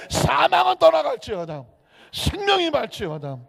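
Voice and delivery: loud, high proclamation; 선포하듯. Acted. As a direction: decree it with preacher's force. 사망을 향한 선포. (크고 힘차게 선포하듯)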